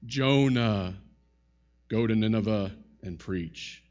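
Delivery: a low, solemn call to Jonah; God calls Jonah in a deep, weighty voice. Retold or imitated. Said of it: "a deep voice like that".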